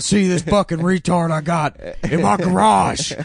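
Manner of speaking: loud, high, far-off mock dad voice, building; prank caller. Prank-calling the record people about his son, high and loud. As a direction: ham it up like a proud dad on the phone. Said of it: "call them up and just be like".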